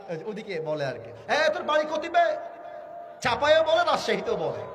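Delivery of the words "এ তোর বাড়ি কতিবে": lively Rajshahi dialect call; a friendly Rajshahi dialect greeting. Retold or imitated. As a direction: toss it out in Rajshahi village speech. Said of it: "এটা, এটা রাজশাহীর".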